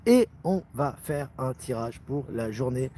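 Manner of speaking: slow, even robot voice. Real, not acted. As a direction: speak like a robot, word by word. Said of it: "Je parle comme un robot".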